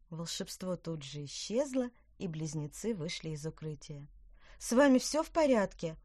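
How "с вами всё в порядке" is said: higher, louder anxious check; concerned question. A narrator's reading. Witch checks on the twins, concerned. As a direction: ask with worried care. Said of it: "озабоченно спросила Петронелла".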